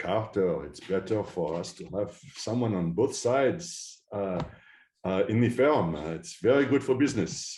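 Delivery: put-on poor Israeli accent. You retell how a colleague advocated for you to the managing partner, in a terrible Israeli accent. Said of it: "I'll stop with my terrible Israeli accent".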